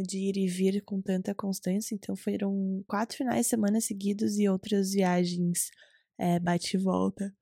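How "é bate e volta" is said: slow, through a yawn. Real, not acted. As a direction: yawn while saying it. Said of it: "Desculpa um bocejo aqui".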